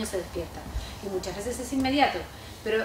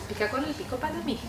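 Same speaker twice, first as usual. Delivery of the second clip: like a little one; 2 semitones higher, 6 dB quieter, faster than usual. Shown as a demonstration. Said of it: "como chiquitito".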